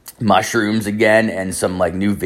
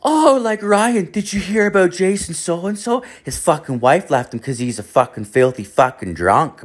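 mom voice, much higher at first; imitating mom; 8 semitones higher than usual. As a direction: mimic the old mother's gossip, high and eager. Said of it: "She's like".

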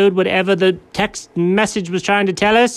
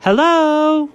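high British hello; lightly done British hello; British accent; 11 semitones higher than usual. Shown as a demonstration. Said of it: "go ahead, you can use it".

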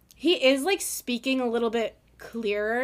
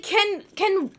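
exasperated plea; 6 semitones higher than usual. Acted. Exasperated plea to male characters.

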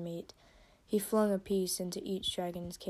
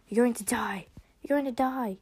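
put-on threatening line in a British accent; British-accented, emphatic doom-saying; 4 semitones higher, 5 dB louder than usual. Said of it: "British accent".

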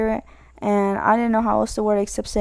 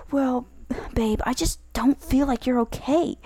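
softer, hesitant mock partner voice; concerned partner; 4 dB quieter than usual. Doubting partner pressing their babe, softly concerned. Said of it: "a lot of relationships. They'll be like".

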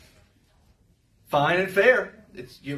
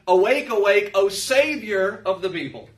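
scripture reading; 3 dB louder than usual. Acted. Reads scripture aloud.

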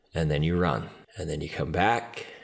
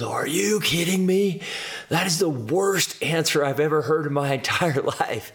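high-pitched, incredulous mock tirade; outraged coach; 9 semitones higher than usual. Coach reacting to the worst answer, retold outrage. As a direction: imitate a coach exploding in disbelief.

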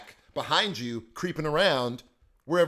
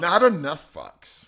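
laughing; 8 dB louder, slower than usual. Real, not acted. Laughing slow remark.

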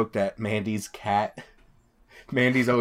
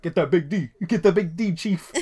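higher, louder comic cheer; mock game call-out; 6 semitones higher, 5 dB louder than usual. Gamer retelling shouts to teammate Chief, raised mock call-out.

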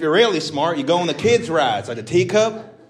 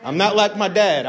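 hammed-up crowd work; 6 semitones higher than usual. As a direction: lean in and needle her. In character teasing audience member.

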